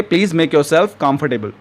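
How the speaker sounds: very slow, each word spaced out for learners; slow teaching model. Shown as a demonstration. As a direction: say it slowly and clearly like a teacher modeling a phrase. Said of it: "तो English में आप कहेंगे".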